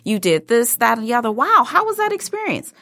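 bright, high, eager networker; eager friendly greeting. Pretend. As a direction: greet them like a keen fan. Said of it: "had walked up to me ... and said".

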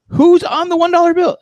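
put-on high-pitched quizzing of a kid; retold incredulous question. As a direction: pitch it way up in mock disbelief. Retold challenge to kids at register.

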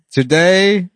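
hammed-up farewell speech; mock DiMaggio speech. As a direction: announce it like a retiring star. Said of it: "he said".

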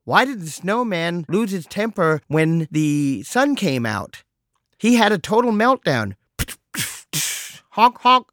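mock phone comedian; joke-telling assistant. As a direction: land the punchline with a honk. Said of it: "it tells me these sorts of jokes".

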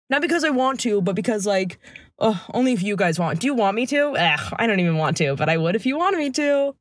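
reluctant whiny politician voice; McCarthy impression. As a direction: fake humble, dragging it out. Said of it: "That's an impression".

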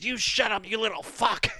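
yelling. Retold or imitated. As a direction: snap back at the drummer, yelling. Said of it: "He starts yelling at him".

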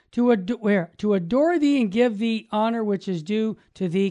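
measured, devout reading of a prayer; prayer read aloud. Acted. Host reading the Mass prayer to the priest, devout.

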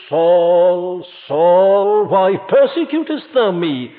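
the Lord calling Saul, a touch of sorrow; sorrowful call. Retold or imitated. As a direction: call the name with mild grief. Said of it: "the tone of the voice".

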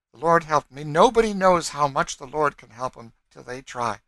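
high, loud fervent testimony; wild. A narrator's reading. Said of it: "said she wildly".

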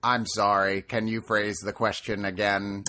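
robot voice. Pretend. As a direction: answer like a polite robot assistant. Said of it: "Synth Bot".

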